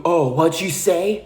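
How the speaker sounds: mock challenge, drawn out slowly; feigned not hearing. Man asking though he clearly heard you, feigned not hearing. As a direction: pretend you missed it, daring a repeat. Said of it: "pretending like he didn't hear you".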